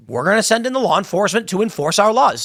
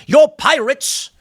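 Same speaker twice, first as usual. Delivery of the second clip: mock complaining French envoy; 7 semitones higher, 3 dB louder, much slower than usual.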